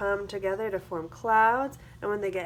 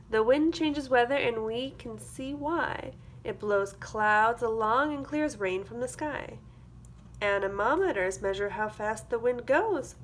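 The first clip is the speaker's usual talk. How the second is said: put-on lively storybook read for young kids; sing-song picture book reading; reading to children; 3 dB louder than usual. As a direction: read it like circle time, bright and clear. Reads a picture book aloud.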